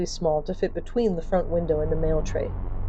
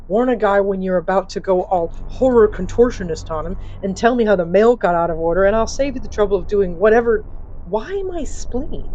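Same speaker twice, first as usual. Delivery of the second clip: loud, irritated grumbling to the boss; sarcastic complaint; 3 dB louder than usual. Acted. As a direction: gripe at the boss, dry.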